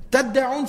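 تَدَّعُونَ with the doubled d stressed; stronger doubled consonant. Shown as a demonstration. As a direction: lean on the held d in تَدَّعُونَ. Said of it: "sounds stronger".

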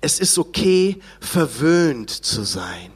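slow, indulgent slogan, low on verwöhnt. Retold or imitated. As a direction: drawl it like a smug ad. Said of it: "Werbeslogan gehabt".

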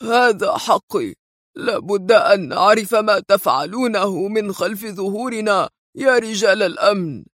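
put-on trembling old man. Old sheikh shouting at security men, trembling with age. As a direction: elderly voice flaring at the guards. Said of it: "وبصوت ارتجفت نبراته من كبر عمره".

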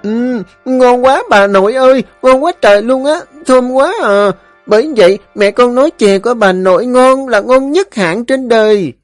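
put-on high, loud, gushing child voice; child voice, overjoyed; delighted small boy. A narrator's reading. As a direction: rave like a thrilled little kid. Child tastes sweet soup.

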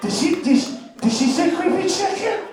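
incredulous. Retold or imitated. Disbelieving at the accent.

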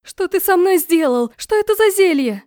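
high, loud outraged questions; rising angry shout at the brother; shrill demand. Acted. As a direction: princess yells at her brother over the potion, high and loud. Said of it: "выкрикнула я".

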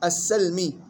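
السلمي as "as-salmi"; fatha on sin. Shown as a demonstration. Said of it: "فتح السين". (السلمي بفتح السين)

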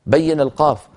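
astonished objection. Retold or imitated. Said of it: "يقول لك".

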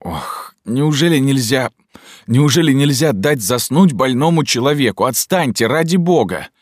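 high, loud, moaning complaint into the phone; pained, loud whining protest; groaning plea. A narrator's reading. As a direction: groan it out like a sick man begging to be left alone. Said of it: "задыхаясь, простонал".

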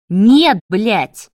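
loud angry bark. Acted. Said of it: "рявкнул Марат". (громко рявкнул)

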